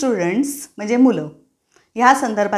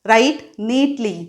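slow teacher command; much slower than usual. Shown as a demonstration. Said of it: "मग teachers काय सांगतात".

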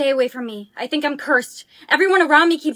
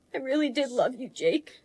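much softer, lower goodbye; tender farewell; 4 semitones lower, 10 dB quieter than usual. Acted. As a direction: say goodbye over a dying love. Farewell to dying boyfriend.

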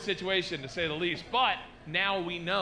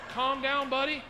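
mock placating; 7 semitones higher than usual. Placating the yelling stranger.

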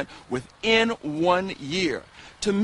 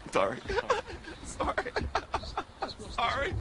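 anchor stifling giggles; 13 semitones higher, 9 dB quieter than usual. Real, not acted. Anchor giggling after flub.

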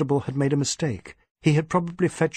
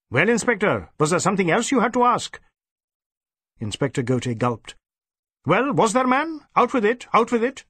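impatient; 8 semitones higher than usual. Acted. Superintendent demanding his gulping inspector speak, impatient. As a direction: bark him into speaking.

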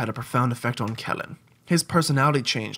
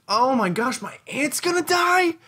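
put-on high kid voice; 9 semitones higher, slower than usual. Mock dramatic child.

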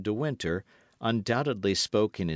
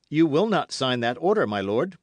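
higher, louder, forbidding his lord; insistent young man challenging a duke; firm, raised-voice protest; defiant young officer; 6 semitones higher, 6 dB louder than usual. A narrator's reading.

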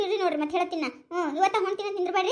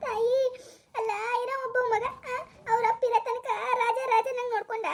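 weeping lament. Acted. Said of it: "ಎದಕ್ ಅಳಕತ್ತಿದಿ".

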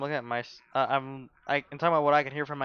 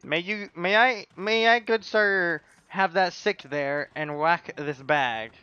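mock old-fashioned gentleman; 3 semitones higher, 3 dB louder, slower than usual. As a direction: ask like a fancy old-time gent. Mock polite request to friend.

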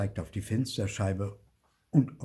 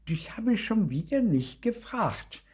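interrupting, snippy; 12 semitones higher than usual. A narrator's reading. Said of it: "unterbrach Lucy ihren oberschlauen Gefährten".

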